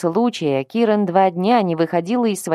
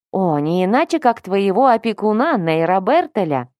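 put-on cutesy baby talk. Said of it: "тонким голоском засюсюкала Вилма".

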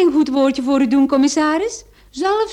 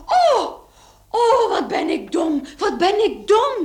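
laughing at herself; 5 semitones higher, slower than usual. Acted. She suddenly remembers, laughing at herself.

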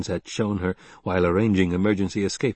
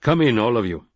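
louder call to the hidden band; 4 dB louder than usual. Acted. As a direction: summon them all in. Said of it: "Stilgar called".

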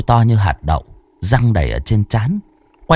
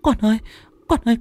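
much higher, quivering mother's cry; a frightened mother begging her child; tearful pleading; faster than usual. Acted. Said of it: "mếu máo".

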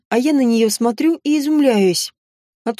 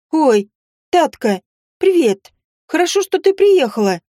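quick, bright chatter, higher; 4 semitones higher, 3 dB louder than usual. A narrator's reading. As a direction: gush your greetings. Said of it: "затрещала сестрица".

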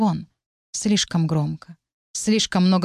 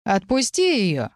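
slow, higher-pitched sharp order; sharp command; 4 semitones higher, slower than usual. A narrator's reading. Rival breaks in on the couple, sharp commanding voice. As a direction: cut in with a drawn-out, sharp command. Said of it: "Резкий голос разорвал наше уединение".

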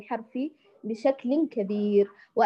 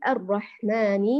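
الرحمن drawn out slowly for dictation; slow spelling; 3 semitones lower, slower than usual. Shown as a demonstration. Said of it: "خلونا نتهجى هذه الكلمة".

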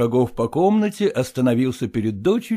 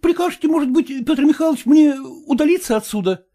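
high, fawning servile voice; bow and scrape to the master; obsequious clerk; 13 semitones higher than usual. A narrator's reading. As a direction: servile suitor asking leave, high and fawning. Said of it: "подобострастно спросил он".

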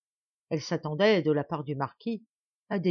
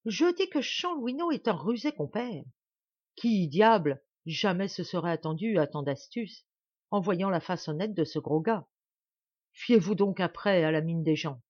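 a hint of a mocking young nobleman; lightly voiced nonchalant son, amused. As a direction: marvel lightly at the trick. Plays Martial amused by the trick. (fils désinvolte, amusé, légèrement incarné)

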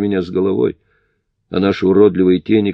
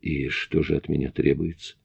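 тихо, с усилием; выдавить через силу; strained; 3 semitones lower, 9 dB quieter than usual. A narrator's reading. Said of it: "с усилием произнёс я". (с усилием)

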